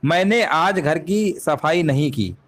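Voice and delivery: slow, deliberate reading of मैंने आज घर की सफाई नहीं की; measured teacher read; slow dictation. Shown as a demonstration. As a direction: read it out word by word for the class. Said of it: "वाक्य के अनुसार".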